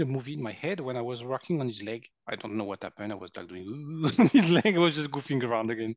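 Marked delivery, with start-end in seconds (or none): 3.7-4.0 goofy "ooh" noise, hamming it up; imitated silly energy-healing noise; playful wavering ooh. Healer goofing around over a friend's leg, playful ooh.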